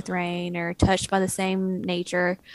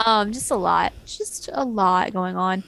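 with hiccups. Real, not acted. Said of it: "Excuse my hiccups".

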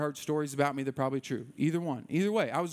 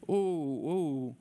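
wincing "ooh"; 2 semitones lower than usual. Acted. Pastor winces at a confession.

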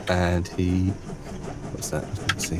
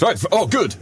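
a hint of a gruff NPC; 10 semitones higher than usual. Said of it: "he goes".

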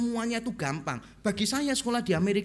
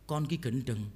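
Surabaya Javanese retort; 3 semitones lower, 4 dB louder than usual. Retold or imitated. Preacher answering angry attendant in his own tongue, Surabaya Javanese retort. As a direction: answer back in earthy Surabaya dialect. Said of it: "Saya jawab pakai bahasa Surabaya".

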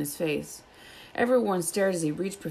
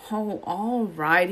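snap; 2 semitones higher, much slower than usual. Acted. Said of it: "he snapped".

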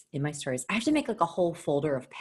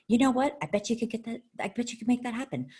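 self-talk quote; 7 semitones higher than usual. Retold or imitated. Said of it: "And I thought".

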